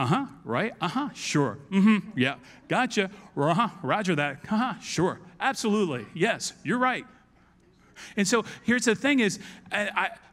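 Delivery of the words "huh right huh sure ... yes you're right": ordinary talk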